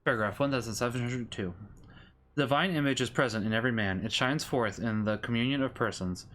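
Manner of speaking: measured Catechism read-aloud; steady, formal reading of a religious text; formal scripture reading. Real, not acted. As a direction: read doctrine out evenly, phrase by phrase.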